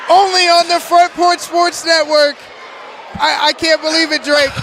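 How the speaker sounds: excited. Real, not acted. After tying shot, still elated.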